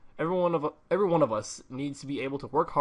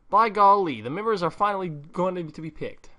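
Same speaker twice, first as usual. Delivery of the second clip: excited; 6 semitones higher, 6 dB louder than usual. Acted. Excited character reacting to the announcement.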